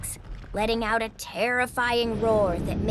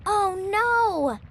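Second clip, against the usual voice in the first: surprised sympathy; 9 semitones higher, 4 dB louder than usual. Acted. Zoe reacts to sick dragon.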